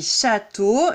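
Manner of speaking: château in two slow beats; two lip movements on château; split into syllables. Shown as a demonstration. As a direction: say château as two separate syllables, châ and teau. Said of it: "mes lèvres bougent deux fois".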